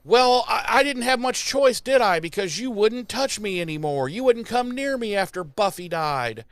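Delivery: high indignant retort; wife defending herself, pitched high. Retold or imitated. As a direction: fire it back at the husband.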